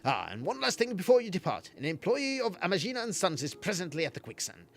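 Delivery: lightly voiced kindly quest giver; NPC dialogue voice. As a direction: read it as a gentle NPC.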